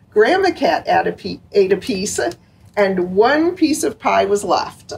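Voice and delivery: lively storybook reading aloud; reading to children. A narrator's reading. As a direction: read it to little kids, bright and gentle. Picture book read aloud.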